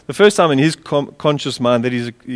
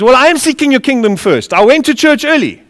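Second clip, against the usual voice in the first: high-pitched, hammed-up complaint; mock moaning; 8 semitones higher, 4 dB louder than usual. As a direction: imitate a churchgoer grumbling for credit. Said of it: "you're moaning and complaining".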